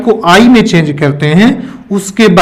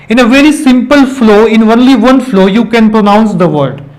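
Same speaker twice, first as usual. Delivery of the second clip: very slow, deliberate phrasing; slow explanation; much slower than usual. Shown as a demonstration. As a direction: lay out each word slowly for the class. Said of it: "pronunciation में".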